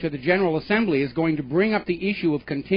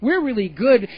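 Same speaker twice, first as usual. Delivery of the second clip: mock banker; 3 semitones higher than usual. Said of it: "basically going on and saying".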